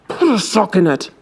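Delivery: gritted-teeth hush; through gritted teeth. Acted. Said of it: "Basil gritted through his teeth".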